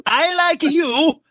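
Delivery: laughing mock voice. Mock accent quote, laughing.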